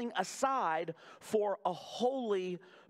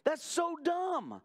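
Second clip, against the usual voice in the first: Paul's exasperated retort; 3 semitones higher than usual. Retold or imitated. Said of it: "Paul looking at the Roman church and going".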